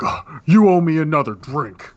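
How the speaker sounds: mildly hammed-up bar-room complaint; mock drunken demand. Game master as drunk guy grabbing Jane's shoulder, mock demanding. Drunk patron accosts Jane.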